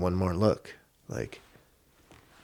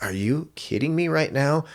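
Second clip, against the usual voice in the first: high-pitched retold amazement; incredulous fan, pitched up; thrilled disbelief; 9 semitones higher than usual. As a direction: act out being out of your skin. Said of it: "I was so out of my skin".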